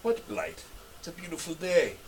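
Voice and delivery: high, sing-song hag voice; breezy, oblivious old hag; cheerful hag. Acted.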